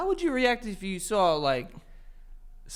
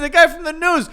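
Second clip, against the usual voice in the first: mildly raised mock yell; louder, higher retold holler; retold scream; 5 semitones higher, 7 dB louder than usual. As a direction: imitate a shouting fan, toned down. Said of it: "He's screaming".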